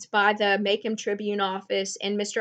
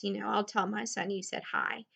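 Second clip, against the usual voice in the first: soft gentle man; 8 dB quieter than usual. Retold or imitated. Man squats and talks to the girl.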